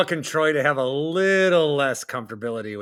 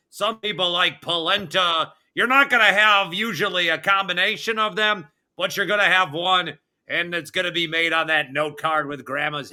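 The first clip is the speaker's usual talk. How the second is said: lightly hammed-up list announcer. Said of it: "it has to be in that voice".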